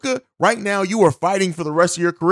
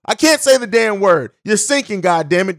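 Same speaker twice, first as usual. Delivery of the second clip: frustrated; 2 semitones higher, 4 dB louder than usual. Real, not acted. Frustrated at own stumble.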